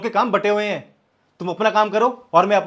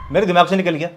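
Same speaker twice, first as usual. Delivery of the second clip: said louder, irritated; husband repeats his excuse louder; louder, defensive; 4 dB louder than usual. Acted. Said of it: "चिल्ला क्यों रही हो".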